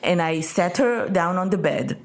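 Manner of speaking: slow, measured quotation; imitating slow speech. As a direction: quote him unhurriedly, word after word. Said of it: "כי הוא מדבר נורא לאט".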